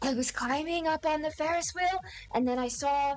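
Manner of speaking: loud stage whisper. Voicing a character telling a secret to a player: loud whisper. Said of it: "whispers really loudly".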